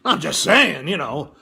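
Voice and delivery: lightly voiced fatherly God, half proud; mild mock God, muttering aside to mother; God impression. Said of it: "I like God's voice".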